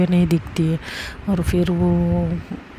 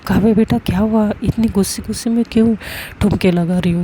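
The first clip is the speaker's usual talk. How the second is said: motherly concern; 3 semitones higher, 4 dB louder than usual. Acted. Mother asks daughter.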